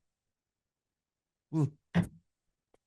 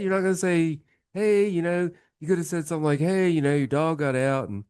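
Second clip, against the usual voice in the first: indignant complaint; 2 semitones higher than usual. Acted. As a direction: lecture him in mock outrage. Guy scolds brother in joke.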